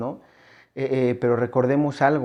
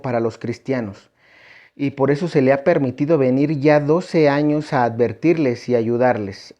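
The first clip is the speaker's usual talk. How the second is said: raised, formal reading of a holy message; solemn message reading; 4 dB louder than usual. Acted. Preacher reads the Lady's message to the congregation, solemn and raised. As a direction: proclaim the words like a read-out revelation.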